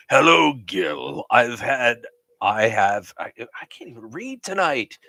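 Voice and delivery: lightly voiced TV host; a hint of a game show host. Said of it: "game show host voice".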